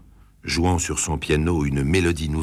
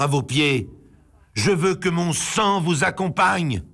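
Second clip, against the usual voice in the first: desperate threat; 6 semitones higher than usual. A narrator's reading. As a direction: build from a hushed vow to a strained high cry. Marcel threatens suicide before her.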